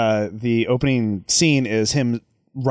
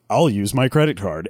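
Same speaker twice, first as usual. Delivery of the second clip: mock Asian accent imitating Americans; 4 semitones lower than usual. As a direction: lower parody of an Asian announcer doing an American. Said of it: "stereotypically Asian accent, imitating Americans".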